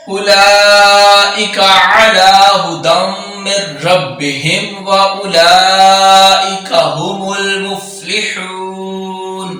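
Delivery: slow, drawn-out tajweed chant; Quran recitation. Acted. Teacher recites the verse slowly for students. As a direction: recite slowly, holding every long vowel.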